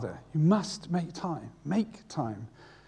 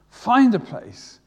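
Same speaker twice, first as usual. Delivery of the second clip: slow, louder emphatic repeat; 5 semitones higher, 7 dB louder, slower than usual. Shown as a demonstration. Preacher pressing the congregation, slow and louder. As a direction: drive the point home. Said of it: "repeated exhortation louder".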